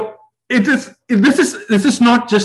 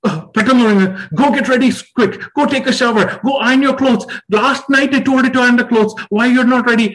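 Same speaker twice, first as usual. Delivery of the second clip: parent yelling at home; 4 semitones higher, much faster than usual. Retold or imitated. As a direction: hurry the family up, raised and impatient. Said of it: "It'll be a huge voice in the house".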